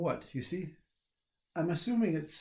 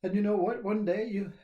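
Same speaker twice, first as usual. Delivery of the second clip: mock-earnest inner voice building steadily higher; the mind's voice; 3 semitones higher than usual. His mind telling him how he was pushed all his life, in a rising mock lecture. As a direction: voice the nagging mind, growing more excited. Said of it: "we have a mind that says".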